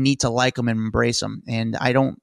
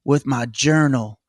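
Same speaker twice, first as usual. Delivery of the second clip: mock drawl of a famous singer. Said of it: "he speaks like a famous singer".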